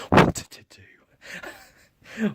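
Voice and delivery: high, very slow, breathy mock dismay; mock fuss. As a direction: ham up a fussy old lady gasp. Mock-posh exclamation.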